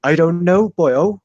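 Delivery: Welsh attempt slipping into West Country; attempted Welsh accent. Co-host having a go at Welsh, off-target accent. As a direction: try Welsh, landing nearer Cornwall. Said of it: "you sounded like you're from Cornwall then".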